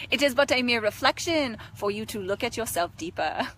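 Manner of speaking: mock-wise Indian accent; Indian guru accent. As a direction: play an Indian-accented guru who breaks into silliness. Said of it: "It is like my Indian guru side".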